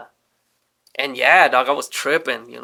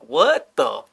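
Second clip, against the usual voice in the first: shocked outburst; 4 semitones higher, 4 dB louder, much slower than usual. Retold or imitated. Shocked at being bailed out.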